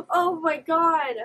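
loud, slow gasping disbelief; gasp, then draw it out loudly; shocked. Real, not acted. Viewer discovering the clone army, shocked.

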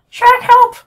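very high, tiny cartoon puppet crying for help; squeaky Pinocchio voice. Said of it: "I don't even know what his voice is".

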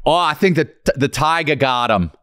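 mock Boston dude; Boston accent. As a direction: play a Boston guy with the accent. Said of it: "Be a fucking Boston dude".

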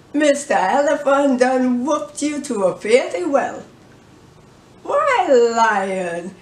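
jeering sing-song monkey voice, lightly done; a lightly voiced cheeky monkey mocking; taunting monkey, cocky. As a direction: rub it in, laughing at the king. Monkey taunts the beaten lion.

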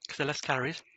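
crunching crisps while talking; mouth full. Real, not acted. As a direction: talk through a mouthful of crisps. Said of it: "I apologise for the crunching".

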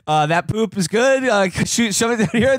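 high, amused mock worker sorting samples; sewage plant worker sorting poop. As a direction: ham up a fussy inspector, half laughing. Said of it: "They're like".

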